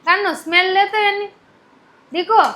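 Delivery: lilting, high parent voice. Real, not acted. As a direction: coax a little one to try it. Coaxing a toddler to show smelling.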